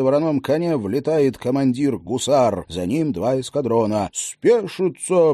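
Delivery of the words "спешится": slow, loud commanding order; barked command. Acted. Hussar commander to his men, loud command. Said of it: "приказывает командир".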